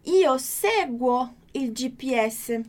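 slow, clear Italian model reading; careful teacher pronunciation; slow model sentence. Shown as a demonstration. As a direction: read it slowly for students to follow along. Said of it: "você pode acompanhar comigo".

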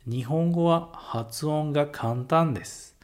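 "Nihongo wa hatsuon ga kantan desu" said slowly and carefully; slow model phrase. Shown as a demonstration. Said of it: "E um outro exemplo".

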